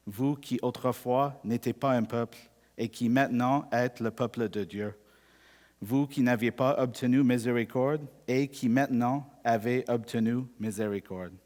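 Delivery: measured, deliberate Bible reading; scripture reading. Acted. Pastor reads the passage aloud to the congregation, measured and solemn.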